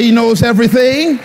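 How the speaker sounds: rallying the congregation with a loud chant; loud call-and-response. Shown as a demonstration. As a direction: shout it back to the room. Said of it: "Everybody say".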